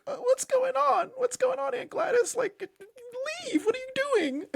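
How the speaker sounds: very high, tiny put-on child voice; poor innocent kid. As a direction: squeak it like a bewildered little kid. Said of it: "this poor innocent kid that's just like".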